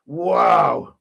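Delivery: loud, startled wow; a real shocked exclamation. Real, not acted. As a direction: blurt it out, caught off guard. Reacting to raunchy video clip.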